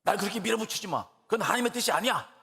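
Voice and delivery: son turning sharp, rising and quickening; a grown son snapping back at his mother, mildly acted; retold angry protest. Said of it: "막 정색을 하면서".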